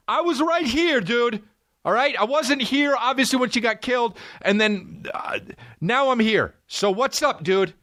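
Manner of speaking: high, yelling defendant, furious and indignant; imagined courtroom outburst. Pretend. Wrongly accused man yelling at the court, furious. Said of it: "they'd be like".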